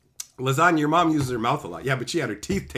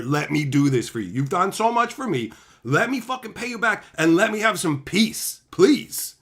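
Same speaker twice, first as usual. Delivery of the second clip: earnest plea; 2 semitones higher, 6 dB louder than usual. Shown as a demonstration. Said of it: "So you just go".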